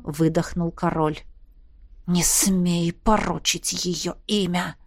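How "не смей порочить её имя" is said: softer, slow, hissed threat; the friend defends the princess in a hiss; angry hiss. A narrator's reading. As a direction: hiss it through your teeth. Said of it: "Зло прошипел Севастьян".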